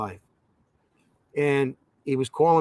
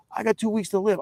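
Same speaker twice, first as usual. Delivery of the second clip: higher-pitched mock invalid; imitated dying voice; 6 semitones higher than usual. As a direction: put on a sick caller's plaintive voice. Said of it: "what's the matter with your voice?".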